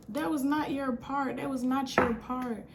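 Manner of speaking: lightly mimicked tough talker; mock tough voice. Storyteller mocks her rival over the part, mock tough voice. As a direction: imitate her trying to act hard. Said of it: "trying to get in that tough voice".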